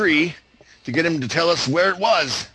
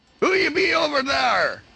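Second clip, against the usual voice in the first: bad, clumsy pirate voice, very high pitch; 10 semitones higher than usual. Voicing a character in a pirate game: bad pirate talk. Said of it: "I'm terrible at the pirate talk".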